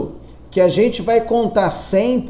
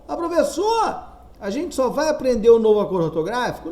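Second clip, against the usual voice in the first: higher-pitched student calling on the teacher; imagined student; 4 semitones higher, faster than usual. Acted. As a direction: ask like an eager pupil, quickly. Teacher voices a student's question.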